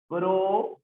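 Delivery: drawn-out teacher's "Pro"; separate syllable. Shown as a demonstration. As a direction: sound out "Pro" as one isolated syllable. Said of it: "esta palabra tiene cuatro sílabas".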